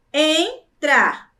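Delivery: "entrar" split into two separate syllables. Shown as a demonstration. Teacher showing pupils two syllables, clearly separated. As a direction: pause between the syllables of "entrar".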